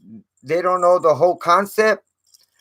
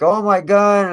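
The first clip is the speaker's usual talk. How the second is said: higher-pitched imitation of overdone wailing; mildly raised voice, imitating a screamer; mock yelling; 5 semitones higher, 4 dB louder than usual. Vlogger mimics an overacting interviewee, mock yell. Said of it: "like, yelling and screaming".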